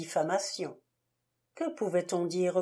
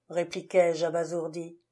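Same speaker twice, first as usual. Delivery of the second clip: ordinary delivery, nothing marked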